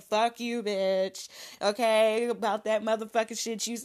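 hammed-up angry phone rant; mock cuss-out. Calling her up at dinner, mock furious rant.

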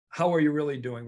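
emphatic "How are you really doing", meant as a genuine question; sincere follow-up. Shown as a demonstration. Teammate not accepting a brush-off, sincere and insistent. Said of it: "it is a sincere question".

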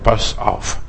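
lightly voiced taunting threat, pitch swinging up and down; drohender Teufel. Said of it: "Der Teufel droht dich mit deiner Vergangenheit". (leicht gespielt drohend, wie ein wissender Ankläger)

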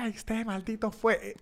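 exclamación imitada más aguda y suave; en locura. Retold or imitated. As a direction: como quien descubre al culpable con rabia y alegría. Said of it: "Entró en locura". (la novia descubre al ladrón, exclamación aguda y eufórica imitada)

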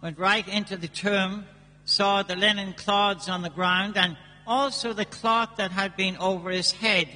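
measured solemn Gospel reading; scripture reading. Acted. Priest reads the Gospel aloud.

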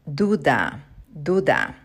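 duda said clearly for repeating; Spanish word. Shown as a demonstration. Teacher modelling duda for students. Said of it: "A doubt".

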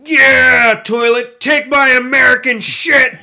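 hammed-up yell at the toilet through laughter; laughing mock shout. Retelling what he told Irish toilets, shouting and laughing. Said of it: "That's what I said".

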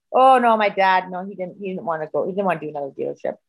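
mock excuse that drops away quickly; retold backing out. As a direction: imitate him wriggling out of it. Voices boyfriend backing out.

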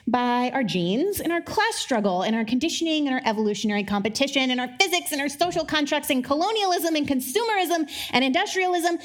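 breathless run-on list, pitch climbing; running out of breath. Real, not acted. Preacher listing what controls us, running out of breath. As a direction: pile up the list until breath runs out. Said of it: "and I'm out of breath".

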